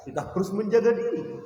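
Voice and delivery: usual speaking voice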